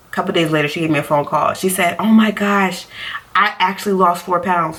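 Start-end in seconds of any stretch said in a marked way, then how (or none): 2.0-4.8 excited aunt. Retold or imitated. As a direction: retell the aunt's happy news with a touch of glee. Aunt calls with happy news.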